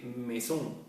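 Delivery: "maison" as a French word, "meh-zon"; French-sounding "maison"; French pronunciation. Shown as a demonstration. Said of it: "por ejemplo, al francés".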